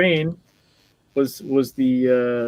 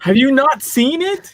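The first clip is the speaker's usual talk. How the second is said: high, drawn-out disbelieving question; astonished and slowed for emphasis; incredulous; 9 semitones higher, slower than usual. Real, not acted. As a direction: ask it in real astonishment, pitch climbing. Shocked co-host has not seen film.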